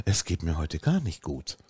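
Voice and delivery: low, soft, downcast imitation; imitated sad excuse. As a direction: mimic a friend's mournful begging-off. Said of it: "auf diese Schrödersche".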